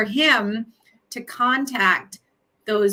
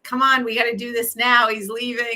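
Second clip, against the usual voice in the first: laughing; 3 semitones higher than usual. Retold or imitated.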